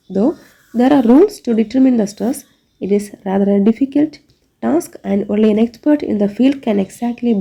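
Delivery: reads the textbook definition word by word, very slowly; slow dictation reading. Shown as a demonstration. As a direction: dictate it slowly so the class can write it down.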